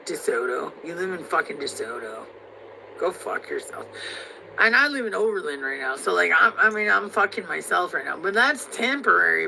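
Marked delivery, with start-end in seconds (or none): 3.0-3.9 whispered insult. Real, not acted. Hissed insult aside.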